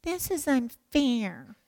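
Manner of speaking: slow, soft sulky complaint; mock self-pity, softly dragged out; pouting. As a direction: whine it with a drawn-out pout. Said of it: "He didn't sit there pouting".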